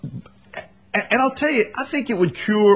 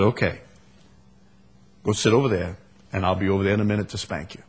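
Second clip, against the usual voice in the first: low, quiet, controlled instruction; calm parental discipline; 9 semitones lower, 4 dB quieter, much faster than usual. Acted. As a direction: send the child off without raising your voice. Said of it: "gives you a chance to calm down".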